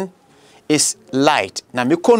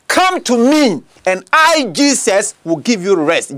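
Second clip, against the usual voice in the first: raised scripture quote. Acted. Preacher voicing Jesus calling people to come. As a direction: sing out the invitation slowly.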